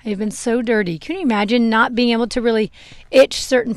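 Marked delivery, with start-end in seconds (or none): 0.0-1.0 whispered, relieved horse talking; the horse thanks her owner in a breathy whisper; horse's thankful voice. Pretend. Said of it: "She's like".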